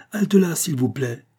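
slow, high-pitched order; called out. A narrator's reading. Officer ordering dragoons to halt, slow high call. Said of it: "cria-t-il".

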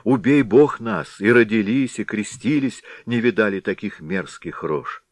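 frightened pleading. Acted. Frightened villagers plead with the Head.

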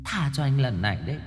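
high, soft, quick ghost voice, letting him off; haughty ghost woman. A narrator's reading. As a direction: grant pardon as a slightly mollified ghost. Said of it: "Cô hất hàm". (giọng ma nữ cao, nhỏ, kênh kiệu)

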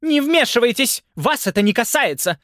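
очень высоко и громко; отгоняет полицейских; злой крик. A narrator's reading. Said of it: "крикнула женщина полицейским". (женщина зло кричит на полицейских)

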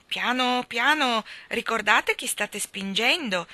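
high, loud haughty reproach; the salmon scolds the crowd from above. Acted. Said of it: "con voce altezzosa". (rimprovero altezzoso e forte)

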